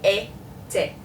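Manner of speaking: "Été" in two separated syllables, AY ... TAY. Shown as a demonstration. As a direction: sound out "Été" as AY, pause, TAY. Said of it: "This one brings it up".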